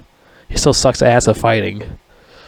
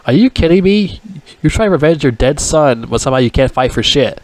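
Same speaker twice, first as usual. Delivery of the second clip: exasperated disbelief; 3 semitones higher than usual. Retold or imitated. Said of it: "I'm like".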